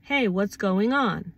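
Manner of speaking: slow, unruffled check-in; calm, casual. Acted. Checking in with someone during a misunderstanding, calm and casual. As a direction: ask it calmly and casually. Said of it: "explain calmly, casually".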